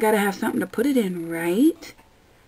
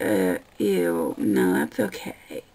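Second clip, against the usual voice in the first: disgusted customer; 2 semitones lower, much slower than usual. Retold or imitated. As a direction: mimic a grossed-out customer. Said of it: "they're like".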